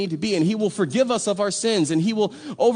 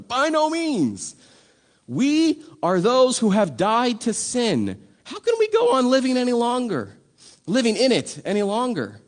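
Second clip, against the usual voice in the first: emphatic declaration; 4 semitones higher than usual. Shown as a demonstration. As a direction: declaim it like an impassioned apostle. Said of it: "we wish we talked like this".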